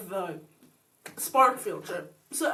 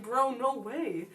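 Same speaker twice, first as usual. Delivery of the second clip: stunned; 4 dB quieter, much slower than usual. Retold or imitated. Stunned disbelief.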